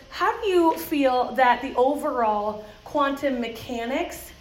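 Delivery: put-on mild serious boy voice; slow and earnest like a little scientist; lightly voiced serious twelve-year-old; serious kid. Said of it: "He's very serious".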